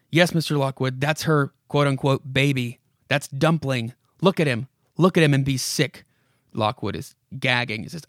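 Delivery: put-on a creaky old house coaxing the visitor; spooky house voice. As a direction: lure him in like a haunted house. House voice goes on.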